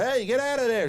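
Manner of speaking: high, loud hammed-up yell; a playful imitated shout to clear the way; mock shout. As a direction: shoo him off with a mock holler. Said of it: "Other characters in Star Wars are going".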